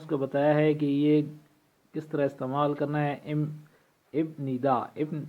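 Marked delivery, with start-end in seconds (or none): 4.1-4.7 "ابن ندا" with the written p/b stop before n; letter-by-letter reading. Shown as a demonstration. Teacher showing learners the written form, "ابن ندا" spelled-out reading. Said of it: "اپنی آواز تبدیل کر کے میم کی آواز".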